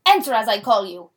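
Shakespearean actors reading lines; dramatic play reading. Acted. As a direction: read it like stage actors.

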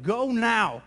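mild mock yell of a command; retold yell. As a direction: raise the voice a little, imitating an order. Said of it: "I just feel like he yelled at me".

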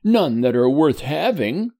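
put-on a blind boy refusing comfort; boy's reply. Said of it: "said Edward".

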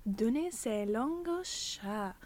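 "Donner sa langue au chat" said slowly in a careful put-on French accent; French accent attempt. Shown as a demonstration. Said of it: "I just love trying to do the French".

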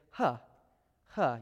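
"huh" as a light breathy English h; Hebrew hey sound. Shown as a demonstration. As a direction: say "huh" with a plain, open h. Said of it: "You make the huh sound".

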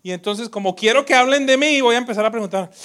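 a hint of the priest. Priest mocking his own ego, lightly voiced. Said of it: "él mismo decía".

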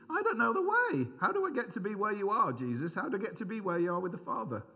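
high, pleading "how do I get there"; pleading question. Retold or imitated. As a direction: ask Jesus like a lost disciple, pitched high. Preacher voicing himself as Thomas.

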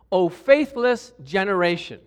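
loud, slow exasperated rebuke; exasperated sigh. Acted. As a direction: draw the rebuke out with weary exasperation. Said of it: "like a sigh. You can, you can hear it".

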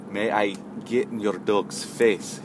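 slow mock European accent. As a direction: draw the question out in a European accent. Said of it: "a European accent".

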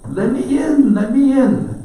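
high, loud big bad wolf. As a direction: squeal it out like the wolf.

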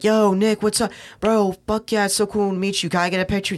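excited fan. Retold or imitated. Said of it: "They're like".

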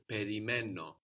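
Περιμένω with the accent on μέ; stress before the ending. Shown as a demonstration. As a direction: stress the next-to-last syllable of Περιμένω. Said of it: "we have the stress just before that o ending".

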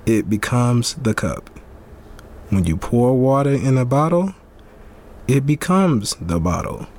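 bad Asian accent. Host reading Bruce Lee quote in a mock Asian accent. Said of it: "That accent was terrible".

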